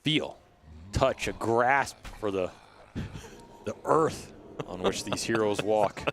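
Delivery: slow, grand warrior speech; solemn epic hero; Gladiator voice. Acted. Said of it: "why do you sound like Gladiator".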